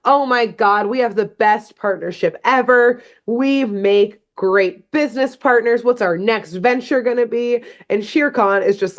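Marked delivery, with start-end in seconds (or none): 0.1-7.6 higher-pitched, gushing self-congratulation; gushing professor. Retold or imitated. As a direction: ramble on, thrilled with your own genius. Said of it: "going on and on about how great his invention is".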